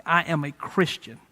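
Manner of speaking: slow, deliberate bold statement; bold declaration. Retold or imitated. Martyr confessing his faith before Herod, quietly bold. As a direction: declare it firmly, word by word. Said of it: "He says it boldly".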